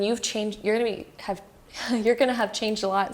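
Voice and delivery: tripping over words, restarting; stuttering. Real, not acted. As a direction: stammer through it, restart the phrase. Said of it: "Sorry, I'm stuttering here today".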